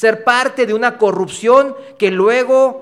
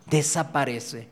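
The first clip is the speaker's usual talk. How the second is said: desaparece drawn out slowly and softer; slow soft echo; 5 semitones lower, 9 dB quieter than usual. Real, not acted. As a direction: let desaparece fade away slowly. Repeated word, slow soft echo.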